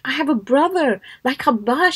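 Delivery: lightly acted incredulity, pitch swooping; mild disbelief. Zainab thinking of her brother, in mild disbelief. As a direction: imitate someone who can't comprehend it. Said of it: "She couldn't comprehend it".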